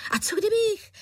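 put-on high loud eager child, cut off; a boy bursting in again. A narrator's reading. Boy interrupted. (nadšeně, vysoko a hlasitě)

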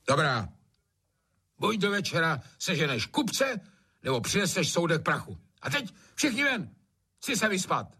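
high commanding landlord; gruff ultimatum. A narrator's reading. Trautenberg dismissing everyone, commanding. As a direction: lay down the law.

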